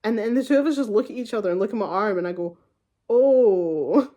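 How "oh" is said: startled oh. Retold or imitated. Surprised by pain reaction.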